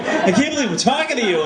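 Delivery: very high, comically giddy fan voice; mock starstruck gushing. Author gushing back at star pitcher, exaggerated starstruck squeal. Both men gush back, escalating.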